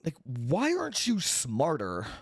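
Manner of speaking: a lightly voiced exasperated quote; mock incredulous. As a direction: squeak out the disbelief. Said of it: "I'm like".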